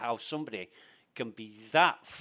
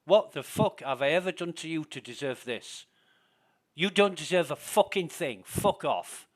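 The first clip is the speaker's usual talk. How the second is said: louder, indignant comeback, building higher; heated retort; 4 semitones higher, 6 dB louder than usual. Retold or imitated. Streamer re-enacting his reply to a hostile player, angry. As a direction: throw the insult back at him.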